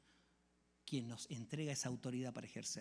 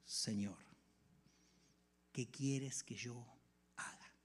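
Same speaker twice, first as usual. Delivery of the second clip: trembling fearful; 4 semitones lower, 6 dB quieter, much slower than usual. Acted. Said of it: "temblando y temeroso".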